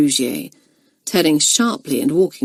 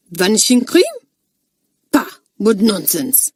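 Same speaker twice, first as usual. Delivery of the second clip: scoffing; 3 semitones higher, 3 dB louder than usual. Acted. Mistress scoffs.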